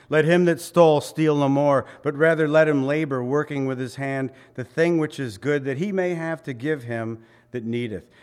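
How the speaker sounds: loud, solemn scripture quote; scripture reading. Acted. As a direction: proclaim the verse. Quoting scripture.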